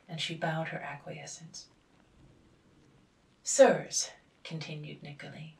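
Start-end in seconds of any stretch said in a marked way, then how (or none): 3.4-4.1 much louder, calling the guests; father announcing to the guests, loudly; loud announcement. A narrator's reading. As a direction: call out to the whole party. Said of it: "father announces to guests".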